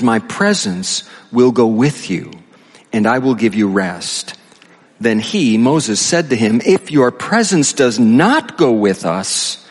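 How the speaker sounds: measured, deliberate Bible reading; scripture reading. Acted. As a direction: read the verse out solemnly to a congregation. Reads scripture aloud.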